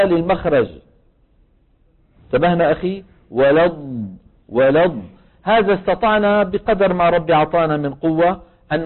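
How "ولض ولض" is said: ولض with the ض flowing; ولض, ض held; ض demo. Shown as a demonstration. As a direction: show the ض sliding forward in ولض. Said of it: "سأعيدها لكم".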